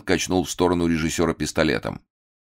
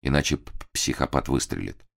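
frightened stammer; 3 semitones lower, 4 dB quieter than usual. Acted. Frightened stammer under threat.

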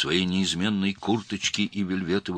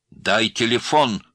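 slow, higher, louder command; shouted order; 6 semitones higher, 7 dB louder, slower than usual. A narrator's reading. Girl ordering man to hand over phone, shouting. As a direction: cry it out as a demand. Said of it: "по-чеченски крикнула девушка".

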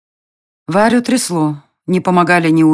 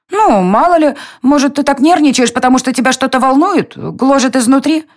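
high coaxing fairy voice; 9 semitones higher than usual. A narrator's reading. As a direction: tease it out gently, high up. Fairy coaxes Varya.

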